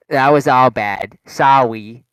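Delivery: put-on loud babyish apology, R softened to W; imitated baby talk. Announcer apologising to students, mocking baby-talk voice. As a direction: mimic the announcer talking like a baby. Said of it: "talks like a little baby to us".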